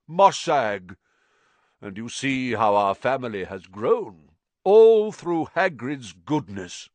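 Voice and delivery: put-on old spider voice. A narrator's reading. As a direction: speak as a weary giant spider. Aragog voiced at length.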